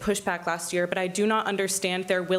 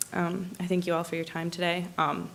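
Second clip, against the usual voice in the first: tight voice holding back tears; speaking through rising emotion; choked up; 3 dB quieter than usual. Real, not acted. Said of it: "I'm sorry if I sound choked up".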